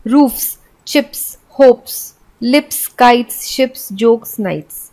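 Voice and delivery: चिप्स, होप्स, लिप्स end on a sharp hissed s. Shown as a demonstration. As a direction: end each word on a crisp s. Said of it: "स का उच्चारण स के रूप में". (अंत में साफ़ स की ध्वनि)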